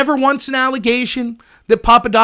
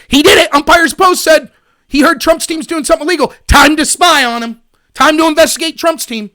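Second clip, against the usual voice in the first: lightly hammed-up alarm, louder; playing an informant raising the alarm; mock urgent report; 4 semitones higher, 6 dB louder than usual. Acted informant urgently reporting back.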